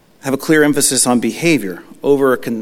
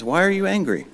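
gentle concern; 6 semitones higher, 5 dB quieter than usual. Retold or imitated. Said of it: "son to father".

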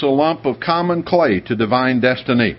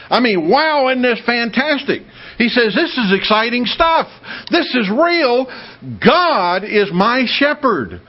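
high, bright-voiced joyful exclamation; excited David; 8 semitones higher than usual. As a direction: burst out with David's thrill, much higher. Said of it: "David is very proudly and emotionally stating".

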